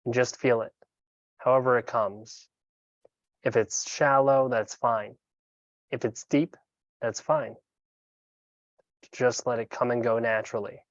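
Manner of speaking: calm, unhurried meditation guide with long pauses; guided meditation. Acted. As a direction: guide them gently into breath awareness, leaving room between phrases.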